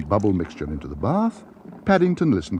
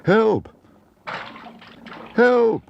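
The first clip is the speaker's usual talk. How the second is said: loud, much higher calls for help; much louder shout; 4 dB louder than usual. A narrator's reading. Bear in the flooded bath, loud shout. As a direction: shout it so the whole house hears. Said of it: "and then much louder".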